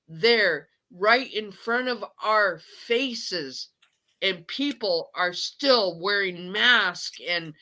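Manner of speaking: angry, upset outburst with stretched stresses; venting. Real, not acted. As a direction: let it all out, emphatic and fed up. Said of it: "I had to let that all out".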